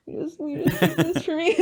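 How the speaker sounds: high, fast, pleading voice; pleading big barbarian. Retold or imitated. Barbarian begging the healer, high fast plea. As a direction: beg sweetly, half laughing.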